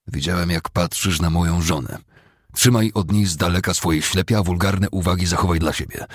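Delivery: understated angry demand; angry warning. Acted. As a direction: warn him off, with a touch of anger. Cooper angrily confronts the sergeant.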